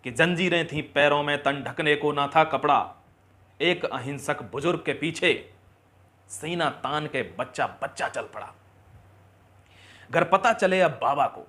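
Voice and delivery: measured, emphatic verse delivery; declaimed patriotic poem; patriotic poem recitation. Acted. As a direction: recite it line by line with pride.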